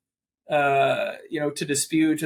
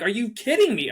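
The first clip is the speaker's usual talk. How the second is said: higher, louder retold shock; mock disbelief; 8 semitones higher, 4 dB louder than usual. Broker hearing the rule changed, stunned disbelief. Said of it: "they're like".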